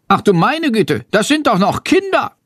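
high, dismayed cry of disbelief; a teacher aghast that children are arrested; shocked teacher. A narrator's reading. Lehrerin protestiert gegen Verhaftung. (entsetzt, mit hoher Stimme)

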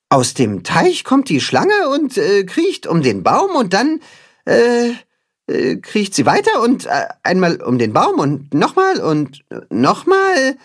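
fumbling. Acted. Timme fumbles the knot.

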